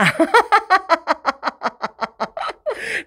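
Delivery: high laugh. Real, not acted. Laughs at own red face.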